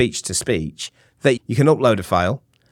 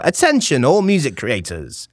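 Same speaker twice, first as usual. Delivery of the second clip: upbeat ad read. Shown as a demonstration. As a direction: kick off a cheesy advert, pitched up. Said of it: "quite up".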